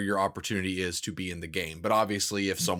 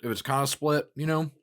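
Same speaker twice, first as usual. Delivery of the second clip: talking around an ice cube; ice in mouth; 2 semitones higher than usual. Real, not acted. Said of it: "I put an ice cube in my mouth".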